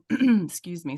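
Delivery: stifling a sneeze, tight throat; holding back a sneeze. Real, not acted. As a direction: talk while fighting a sneeze. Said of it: "sorry, I'm trying not to sneeze".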